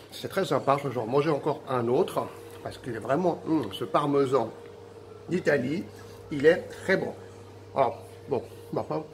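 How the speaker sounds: talking while chewing cheese; words round a bite of parmesan; mouth full. Real, not acted. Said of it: "parler la bouche pleine, c'est un peu compliqué". (la bouche pleine)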